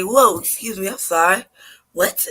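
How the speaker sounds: mock-polite surprise, lightly acted; polite disbelief. Customer reacting to the waitress's remark, polite disbelief. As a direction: question it politely, taken aback. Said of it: "with my polite voice".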